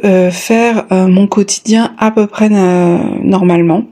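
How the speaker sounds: breathless, short of air; out of breath. Real, not acted. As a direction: talk while winded. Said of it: "je suis essoufflée".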